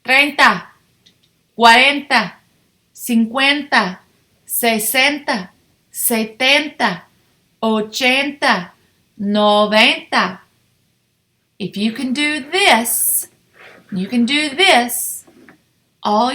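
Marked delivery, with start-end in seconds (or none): 0.0-10.4 clear, paced call-and-repeat counting; counting drill. Shown as a demonstration. Teacher leads the class, counting teens aloud clearly. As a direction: lead the class through the teens. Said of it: "Repeat after me".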